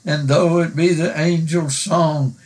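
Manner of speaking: measured, reverent recital of a hymn verse; hymn recitation. Acted. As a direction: recite it like a poem from the pulpit.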